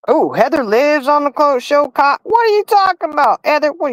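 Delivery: high, incredulous reaction to a chat comment; "what are you talking about?" genuinely thrown; surprised disbelief. Real, not acted. Reading a viewer's comment aloud, high and surprised.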